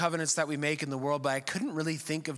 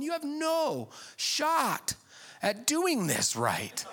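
laughing; 13 semitones higher, much slower than usual. Retold or imitated. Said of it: "I'm going".

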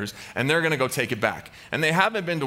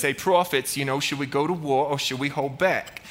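lightly put-on Boston mob boss accent; hint of old-school Boston gangster. Ahab consulting his four hundred prophets, Boston gangster accent. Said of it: "old school gangsters with Boston accents".

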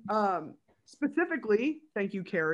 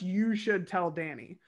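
suggestive nudge. Retold or imitated. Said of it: "he's very much".

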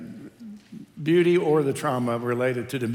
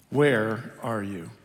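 God calling; 4 semitones lower, much slower than usual. Acted. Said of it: "the Lord God called".

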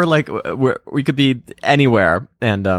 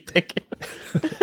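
much higher put-on Australian voice; mock Aussie; 3 dB quieter than usual. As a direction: chirp it like a silly Aussie.

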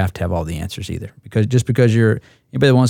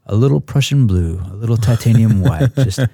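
lightly voiced TV painter, dreamy and unhurried; a hint of the painting-show host talking about colours; Bob Ross. Squadron mate jokingly channels the painting-show host, lightly voiced. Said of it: "fly F C S off like Bob Ross paints".

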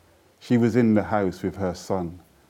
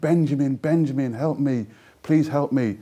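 mock pleading cry, higher; retold scream; 5 semitones higher than usual. Handcuffed woman on the plane calls for help, higher pleading cry. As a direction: call out for help, pitched up. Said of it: "She screamed".

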